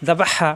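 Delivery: জা বা হা ending in a tight breath from the throat; pressed throat h. Shown as a demonstration. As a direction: squeeze the হা from the throat. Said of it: "কর্ণ হলতে চাপ দিয়ে". (জা বা হা, হা-তে কণ্ঠে চাপ দিয়ে)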